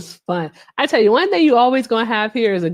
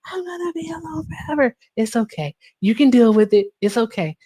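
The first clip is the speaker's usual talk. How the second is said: higher, hammed-up tearful self-pity; mock bawling; 5 semitones higher than usual. Crying alone in the car to a singer's songs, hammed-up and higher. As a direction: wail it up high like mock sobbing.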